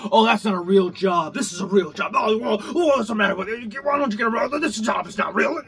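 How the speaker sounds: a touch of sneering mimicry; lightly mock the snobby critic; mocking quote. Imitating critics of his job, mild sneer. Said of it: "if you're doing some kind of job they don't consider real".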